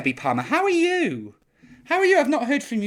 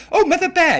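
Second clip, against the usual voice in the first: louder calling out; 8 semitones higher, 7 dB louder than usual. Real, not acted. Calling Mother Bear again after no answer, louder. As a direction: call her name again, louder and higher.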